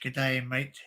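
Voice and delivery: easygoing Australian greeting; Australian English. Shown as a demonstration. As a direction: say it in an Australian accent. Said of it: "I can speak Australian English".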